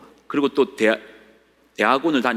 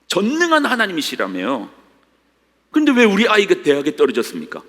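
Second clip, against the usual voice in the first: higher, louder indignant questions; angry complaint; 8 semitones higher, 4 dB louder than usual. Acted. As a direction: demand an answer from God. Voicing believer's angry complaint. (하나님께 항의하는 성도의 분노 섞인 외침)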